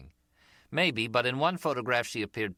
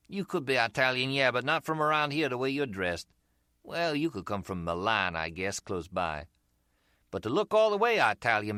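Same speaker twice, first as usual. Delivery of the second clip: grin through it, busted and enjoying it; American street seller; 5 semitones higher than usual. Acted. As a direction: seller to Harry, cheerfully admitting the fake accent. Umbrella seller voiced.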